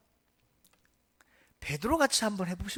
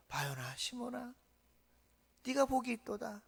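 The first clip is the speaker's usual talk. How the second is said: soft blessing; 4 dB quieter than usual. Acted. Jesus blesses Peter softly.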